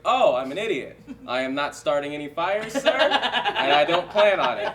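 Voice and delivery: embarrassed fan blurting to a fireman, laughing; flustered laughing babble. Retold or imitated. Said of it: "I was like".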